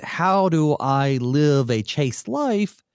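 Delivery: slow, drawn-out pious question; mock earnest student. Pastor voicing the question youth should ask, slow and pious. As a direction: play a dutiful teen asking sincerely.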